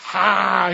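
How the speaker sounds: loud, high mock "ha"; imitated hard laugh. Friend laughing hard at the tall guy, mock guffaw. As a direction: burst out in a pretend guffaw. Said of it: "he's laughing so hard at me".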